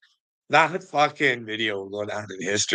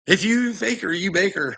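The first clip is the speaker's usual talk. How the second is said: higher sing-song rhyme; playful rhyme; 9 semitones higher than usual. Real, not acted.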